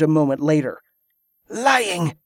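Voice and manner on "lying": sharp high verdict; pronouncing. A narrator's reading. Kelisandra rejecting the pirate's claim, sharp. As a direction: cut him off with one word. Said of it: "she pronounced".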